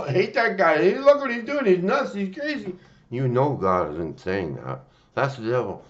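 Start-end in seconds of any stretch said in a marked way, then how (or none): 0.0-2.7 higher, mock-taunting inner voice; devil's whispering thought. Imitating the devil's thought in your head, mock taunt. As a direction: voice the devil's nagging thought, lightly. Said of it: "this thought will come in your head. Now go".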